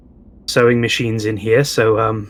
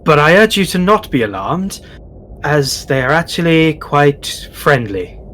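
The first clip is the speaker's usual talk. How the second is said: character voice; 2 semitones higher than usual. Acted. Player character addresses the goblin.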